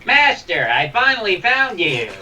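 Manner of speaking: high eager droid voice. Acted. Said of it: "drop the voice".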